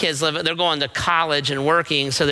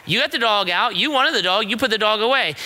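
higher-pitched, insistent argument with a spouse; mock-exasperated husband, raised pitch; retold upset bickering; 4 semitones higher, faster than usual. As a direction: push back at your wife, re-enacting a squabble. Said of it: "Why are you upset with me?".

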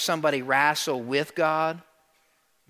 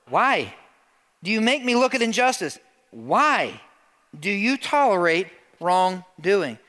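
impassioned challenge; 5 semitones higher, 4 dB louder than usual. Acted. Preacher acts out Habakkuk's challenge.

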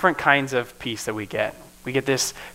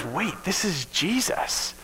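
awed realization; 5 semitones higher, 7 dB quieter, slower than usual. Retold or imitated. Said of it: "that turns to joy as they realize".

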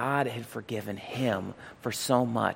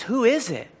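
higher, louder frightened call into the dark; startled call; 11 semitones higher, 5 dB louder than usual. Retold or imitated.

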